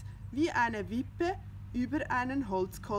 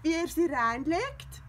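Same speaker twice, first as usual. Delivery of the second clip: mock hissed aside; 9 semitones higher, 6 dB louder than usual. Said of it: "zischte Findus Pettersson zu".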